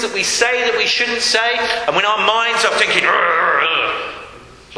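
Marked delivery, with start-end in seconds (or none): 3.1-4.8 low grumbling groan; muddled grumbling thoughts. Shown as a demonstration. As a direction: grumble like a churning mind. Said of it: "like that".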